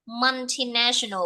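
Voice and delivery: multinational begun with an open "man-tee"; slow, careful model of "multinational", open first vowel; correct pronunciation. Shown as a demonstration. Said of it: "không phải là multi hay cái gì đấy". (multinational đọc chậm, âm đầu mở "man-ti")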